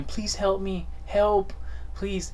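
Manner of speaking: high, pleading cry for help; mock pleading. Retelling a scam call, mock hostage pleading. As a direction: imitate a scared hostage begging.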